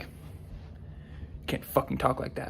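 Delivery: slow, breathless whispered menace; drunk stranger's threat. Retold or imitated. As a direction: hiss it slowly like a drunk picking a fight. Drunk stranger confronting him.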